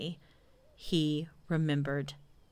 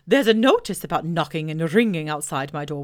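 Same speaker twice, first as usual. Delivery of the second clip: Owl voice; 5 dB louder than usual. Acted. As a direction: boom it out like a pompous owl. Owl speaking.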